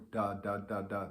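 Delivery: "da" with the tongue on the ridge behind the teeth; da tonguing. Shown as a demonstration. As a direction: tap "da" lightly behind the teeth. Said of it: "My tongue is hitting".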